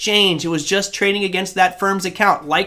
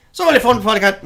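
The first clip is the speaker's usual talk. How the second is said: put-on accidental Irish accent; 4 semitones higher than usual. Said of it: "no, that was gonna go Irish there".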